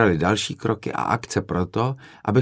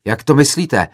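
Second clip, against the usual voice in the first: retold indignant yell, higher and louder; angry yell; 6 semitones higher, 7 dB louder than usual. Offended student yelling back at the filmmaker, indignant. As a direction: demand an answer, offended. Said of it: "zařval rozčileně jiný student".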